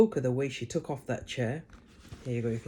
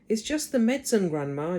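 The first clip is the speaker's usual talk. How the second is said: George; 7 semitones higher, 5 dB louder than usual. A narrator's reading. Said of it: "George said".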